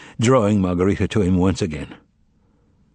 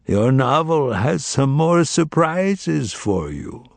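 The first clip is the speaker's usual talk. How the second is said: slow, smiling and higher; 5 semitones higher, much slower than usual. Acted. Voland smiles at the master, slow and knowing. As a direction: promise it slowly with a smile. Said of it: "he smiled".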